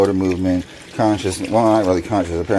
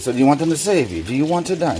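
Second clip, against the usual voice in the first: higher, urgent repeated questions; retold screaming; 8 semitones higher, faster than usual. Son screaming questions at his dad in the ICU, mild mock yell. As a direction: fire the questions at him, not a full scream. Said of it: "as I'm screaming these at him".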